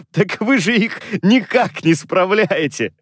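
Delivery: high, slow protest; exclaiming. A narrator's reading. Nephew protesting to his uncle, exclaiming. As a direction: object emphatically, pitched high. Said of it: "воскликнул племянник".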